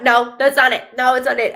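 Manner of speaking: straight-up correction, pitched slightly up. Retold or imitated. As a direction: relay her no-nonsense denial. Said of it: "very straight up".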